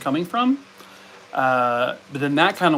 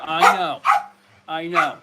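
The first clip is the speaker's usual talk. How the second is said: high soothing coo; cooing pet talk; 4 semitones higher than usual. Pretend. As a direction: soothe the dog with a sing-song high voice.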